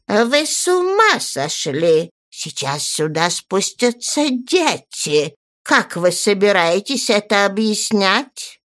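put-on slow, indignant elderly lady; scandalised aristocrat; alarmed old lady. Baroness scolds in alarm.

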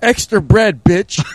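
high, put-on Italian accent; mock Italian customer. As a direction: bark the order like a rude diner.

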